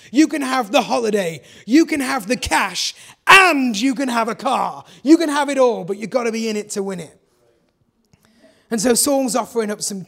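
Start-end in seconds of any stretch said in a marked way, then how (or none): 0.1-5.8 booming game show host, louder and louder. Pretend. Preacher parodying a talent show prize announcer, loud hype.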